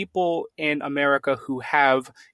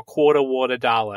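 put-on Long Island accent. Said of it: "thick Long Island accent".

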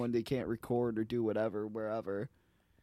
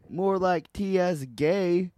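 punchline; 5 semitones higher, 5 dB louder, slower than usual. Pretend. Punchline of a joke.

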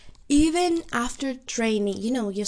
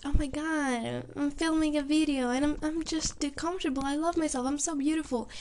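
mock self-loving video creator, higher; imitating confident posters; 4 semitones higher than usual. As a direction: put on an airy show of self-confidence. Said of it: "being so comfortable about themselves".

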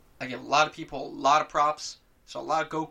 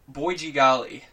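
put-on loud gee-whiz kid voice; golly-gosh kid, all wide-eyed; wholesome 1950s kid; 7 dB louder than usual. Mock wholesome exclamation.

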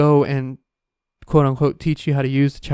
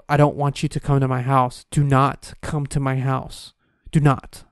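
stern. Retold or imitated. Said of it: "be so fucking stern".

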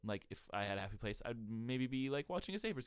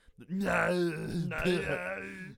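Schwarzenegger grunt; 7 semitones higher, 7 dB louder than usual. Shown as a demonstration. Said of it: "just to do his, like, sound".

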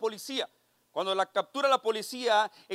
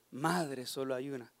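punchline delivery; 9 semitones lower, 9 dB quieter than usual. Acted. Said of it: "por eso puedo decir".

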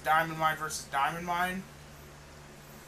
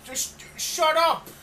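laughing; 7 semitones higher, 7 dB louder, slower than usual. Real, not acted. Mocking Roddy, laughing.

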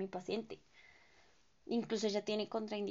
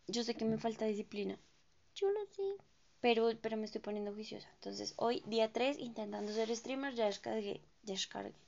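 ordinary delivery

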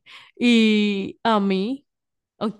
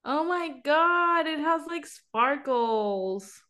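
amazed; 5 semitones higher, much slower than usual. Real, not acted. Amazed at the makeup sparkles.

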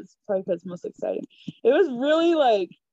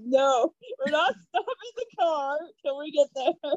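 retold firm refusal; 7 semitones higher, slower than usual. Retells sister and husband's firm refusal.

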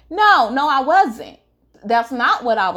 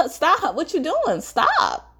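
nervous laughing protest; 7 semitones higher, slower than usual. Retold or imitated. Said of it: "still kinda laugh about the situation".

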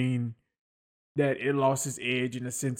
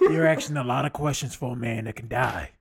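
Wolverine voice; 5 dB louder than usual. Acted. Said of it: "his full Wolverine impression".

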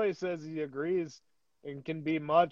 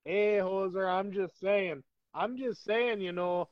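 put-on higher-pitched Canadian accent drifting toward Jamaican; a muddled mock Canadian-Jamaican accent; Jamaican-sounding accent; 3 semitones higher, 4 dB louder than usual. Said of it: "kinda doing a Jamaican thing".

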